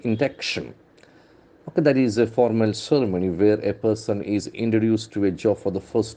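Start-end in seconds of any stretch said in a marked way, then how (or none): 0.0-0.7 induction stressed on the middle syllable, in-DUC-tion; second-syllable stress. Shown as a demonstration. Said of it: "the accent falls on the second syllable".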